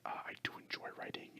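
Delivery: ordinary delivery, nothing marked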